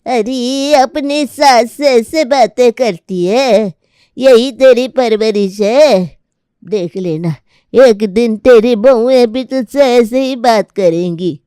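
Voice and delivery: put-on a cranky old mother scolding her son; scolding old grandmother. Grandmother scolding her forgetful son, lightly voiced.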